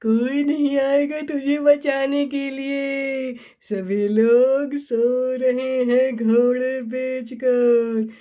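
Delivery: witch voice. Acted. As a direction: drag the threat out like a gloating witch. Witch threatens the child.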